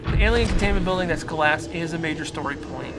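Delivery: ordinary talk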